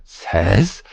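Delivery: "says" drawn out with an upturn; slow, rising "says"; mimicked TTS intonation. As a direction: imitate the robot reader's questioning "says". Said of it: "it changes the intonation of the voice".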